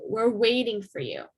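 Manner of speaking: waiting stressed, falling after it. Shown as a demonstration. Teacher repeating the focus on waiting. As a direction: hit waiting as the main verb. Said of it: "Waiting is the main verb, and that is the one that's emphasized".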